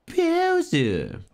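high shout of the name; calling out. Acted. Character calls out villain.

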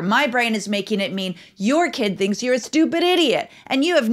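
exaggerated spiralling thoughts. Shown as a demonstration. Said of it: "I'm kind of exaggerating it a little bit".

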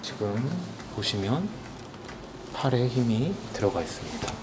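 lightly voiced hypnotist guiding. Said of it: "최면술사입니다".

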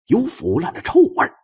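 usual speaking voice

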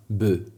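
"by" with a vowel like Polish y; "by", the e sounded close to Polish y; clear first syllable. Shown as a demonstration. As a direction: say "by" as a short, unaccented Polish-style y syllable. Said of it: "Trochę jak takie nasze y".

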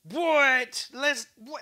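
high, loud startled what; surprised outburst at the viewer's joke. Real, not acted. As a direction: react in mock disbelief. Chatter says married, unlucky.

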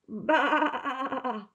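lightly voiced lamb bleating; little lamb bleat. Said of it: "said the little lamb".

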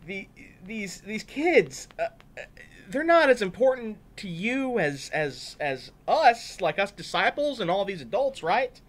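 high, loud stammering excuses; hammed-up sheepish disciples; flustered disciples. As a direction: caught out and whining their case.

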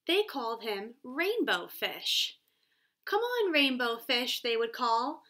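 put-on lively read-aloud for young kids; storybook reading. A narrator's reading. Teacher reading The Rainbow Fish to her class, lively read-aloud.

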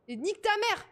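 sudden high curse in a panic; panicked outburst. Real, not acted. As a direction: blurt it out in a panic. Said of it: "J'ai paniqué".

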